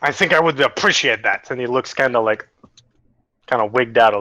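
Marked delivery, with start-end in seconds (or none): 0.0-1.5 put-on lightly Frenchified German accent; botched German accent. Game master's character answering the mushroom, botched German accent. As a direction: attempt a German accent, badly. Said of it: "It was supposed to be German".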